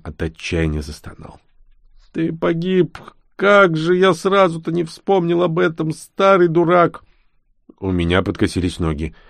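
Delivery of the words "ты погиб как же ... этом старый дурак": put-on higher old man's voice in dismay, slow on the end; despairing baron. A narrator's reading. Baron groans to the boy in despair. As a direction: curse yourself like a hopeless old fool.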